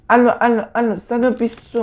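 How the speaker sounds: high, hurried hello into a phone; mock frantic call. Gamer pretending to call firefighters, mock frantic. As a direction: play a frantic emergency caller. Pretend phoning fire brigade.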